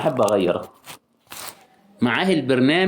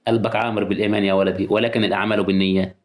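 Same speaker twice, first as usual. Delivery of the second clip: lightly pious man; 4 semitones lower than usual. Retold or imitated. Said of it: "هتلاقي راجل تقي".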